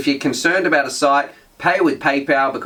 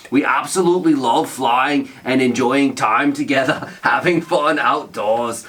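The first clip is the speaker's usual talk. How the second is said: slow, hammed-up Scottish accent reading a comment; rough, forced Scottish accent that strains the voice. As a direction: read it like a broad Scot, slowly. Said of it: "some, some Scot".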